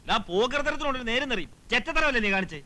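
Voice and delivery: scolding with rising temper; heated. Acted. Friend berating friend over a paid wedding, heated. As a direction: tell him off, heated but not shouting. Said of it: "ചൂടാവരുത്".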